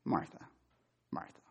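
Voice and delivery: quiet, tender Martha, Martha; soft, gentle naming. Shown as a demonstration. Pastor voicing Jesus calling Martha gently, soft and tender. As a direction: say her name softly and gently. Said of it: "Is it just".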